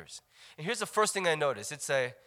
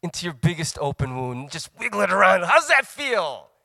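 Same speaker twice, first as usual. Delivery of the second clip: mocking; 4 dB louder than usual. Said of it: "And you're like".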